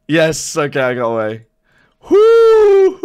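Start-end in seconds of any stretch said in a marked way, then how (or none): 2.1-2.9 very high, loud whoop; triumphant whoop. Real, not acted. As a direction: let out a piercing victory whoop. Celebrates escaping.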